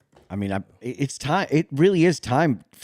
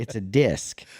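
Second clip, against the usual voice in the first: sarcastic; slower than usual. Pretend. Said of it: "You're being sarcastic".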